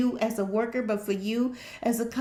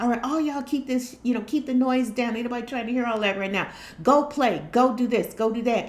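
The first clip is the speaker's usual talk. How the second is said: irritated dad. Retold or imitated. Dad back from a bad day snapping at his kids, irritated. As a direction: shoo the kids away, fed up.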